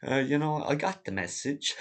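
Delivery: airy mock of a satisfied old man; Doomer Dad, mock voice. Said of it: "And he was going".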